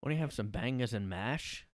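lightly put-on British accent. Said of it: "I can't do the accent".

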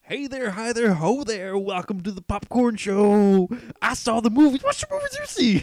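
hammy talk-show greeting; goofy host voice. Pretend. Mock show host character.

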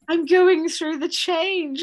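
mock-solemn pronouncement of doom; ominous euphemism. Mocking her mum's phrase for menopause, hammed-up and drawn out. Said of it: "what is the euphemism".

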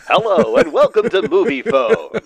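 movie phone announcer. Retold or imitated. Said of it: "We got Mister Movie Phone for that".

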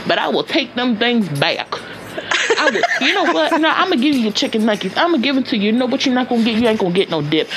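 put-on terrible country grandma accent. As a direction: scold in a hammed-up country accent. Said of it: "I'm doing a terrible country accent".

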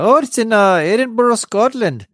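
half-hearted stab at a Scottish lilt for Edinburgh; poor Scottish accent. Shown as a demonstration. Podcast host jokingly names the shop's Scottish city, poor Scottish accent. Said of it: "do my Scottish accent there".

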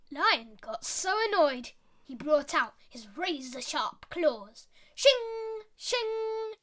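put-on lively storyteller voice for kids; story narration. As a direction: read it like a bedtime fable. Storytelling a fable.

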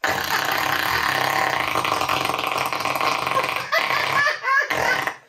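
a long airy imitated fart; hammed-up fart imitation between laughs; mock fart noise. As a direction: blow out a breathy fake fart sound. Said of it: "farting like this".

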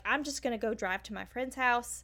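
a light Southern twang; Southern accent. Retold or imitated. Hint of a Southern accent imitating a panicked driver. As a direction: lightly voice a flustered Southern woman. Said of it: "I love that you put on your Southern accent".

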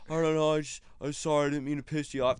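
retold sheepish pleading; mock cowering apology. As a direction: grovel lightly, as if cowed. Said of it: "Just totally cucking".

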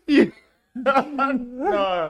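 high bursts of laughter; cracking up mid-sentence; laughing. Real, not acted. Laughing at friend.

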